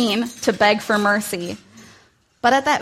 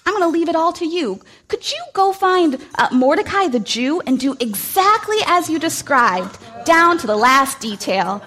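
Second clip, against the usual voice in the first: cheerful king; 5 semitones higher than usual. Acted. King commanding Haman cheerfully.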